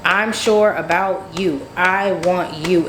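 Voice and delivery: slow, measured retelling of his calm assurance; calm, sure. Retold or imitated. Man calmly reassures the doubting woman, imitated slow and sure. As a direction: imitate him unruffled, spacing out the words. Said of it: "He's just sitting there calm".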